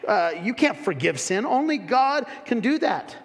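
mild mock outrage of a religious critic. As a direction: sneer down at Jesus. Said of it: "Or, or secondly".

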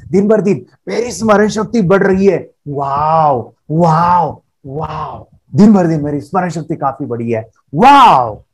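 smiling, delighted affirmation with a bursting wow; with a smile and feeling. Shown as a demonstration. Coach showing children the right way, smiling and thrilled. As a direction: say it like you truly feel your memory growing. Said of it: "चेहरे पे smile चाहिए".

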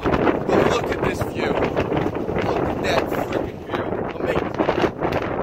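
slow hushed whisper at the view; awed whisper. Real, not acted. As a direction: breathe it out in awe.

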